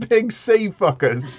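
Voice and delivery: high, slow raspy echo; smoker's rasp. Retold or imitated. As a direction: repeat it like a chain smoker. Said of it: "had, like, a chain smoker voice".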